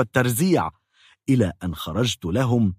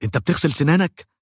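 dentist barking a question, a touch higher and quick; mock yell; 4 semitones higher, faster than usual. Dentist yells at the patient, in a mild mock yell. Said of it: "وصرخ".

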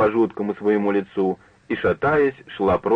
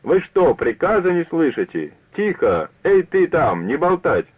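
higher, thin voice barking orders, voice breaking; a weak woman playing drill sergeant, higher; thin cracking voice shouting commands; 7 semitones higher than usual. A narrator's reading. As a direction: drunk woman trying to command a noisy tea room in a thin, higher voice. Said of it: "тонким срывающимся голоском выкрикивала всякие команды".

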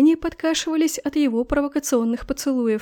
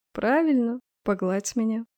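purring; 4 dB quieter than usual. Acted. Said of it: "мурлыкнул паршивец".

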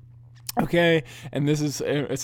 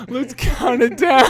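announcer shout; 8 semitones higher, 7 dB louder than usual. Retold or imitated. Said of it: "The guy goes".

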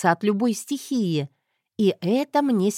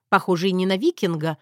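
ordinary delivery, nothing marked

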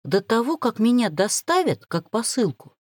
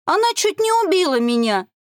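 much higher, louder whiny half-sob; sobbing complaint; 11 semitones higher, 4 dB louder than usual. Acted. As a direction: whimper to the man for pity. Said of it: "всхлипнула". (плаксиво всхлипнуть)

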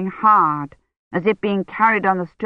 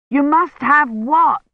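slow, high, louder shout; shouting over sirens; 9 semitones higher, 3 dB louder, slower than usual. Acted. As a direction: yell the question over a wailing siren. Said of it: "Dunworthy shouted over their up-and-down klaxon".

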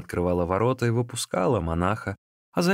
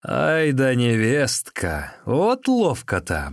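slow, loud, higher mock praise; sarcastic exclamation; 5 semitones higher, 4 dB louder, much slower than usual. A narrator's reading. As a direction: drag out the sarcasm. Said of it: "воскликнул Шисю".

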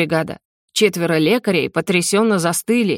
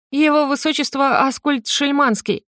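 lightly voiced young prince, higher pitch; a hint of a flustered prince, pitched up; 7 semitones higher than usual. A narrator's reading. Prince introducing himself to the dragon, lightly voiced.

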